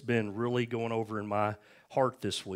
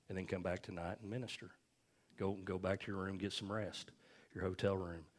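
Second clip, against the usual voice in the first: softer, unhurried, mildly reassuring; gentle retold instruction; 2 semitones lower, 7 dB quieter than usual. God telling a worn-out minister to let go, gently. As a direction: quietly send someone off to rest. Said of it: "Holy Spirit just real gently said".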